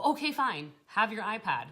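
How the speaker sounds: put-on "oh all right, then" surrender; mock giving in. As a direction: give in like a fed-up parent. Acted parent giving in to tantrum.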